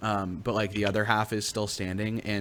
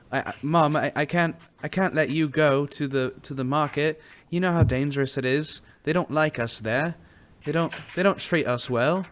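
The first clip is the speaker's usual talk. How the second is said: higher, earnest pleading voice; Chirpy pleading his case; 5 semitones higher, 3 dB louder than usual. Acted. Son warning his mother about the market, earnest pleading. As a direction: plead with Mom in a raised pitch. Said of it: "he's really presenting a case".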